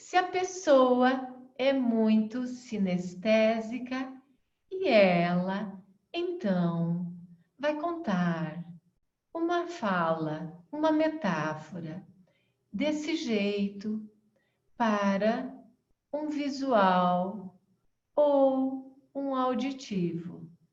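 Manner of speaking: very slow, drawn-out, pausing, sluggish delivery. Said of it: "você está falando de uma forma muito lenta".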